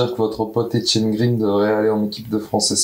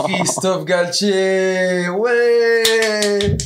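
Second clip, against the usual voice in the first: dramatic winner reveal; 7 semitones higher, much slower than usual. Acted.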